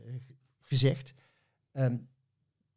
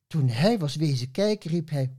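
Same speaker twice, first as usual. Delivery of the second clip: lively rhyming read-aloud with voiced characters; poem recital; 4 semitones higher than usual. Poet reading her Schaap Veronica tribute on the radio, playful recital. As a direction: read the verse with playful, bouncing rhythm.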